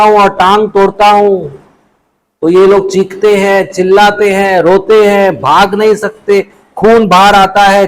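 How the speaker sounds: gloating hunter. Acted. Hunter relishes cruelty.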